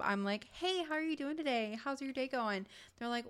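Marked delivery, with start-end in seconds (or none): 0.5-2.7 high, bright customer-service greeting; cheery service voice. Retold or imitated. Customer greeting at regular job.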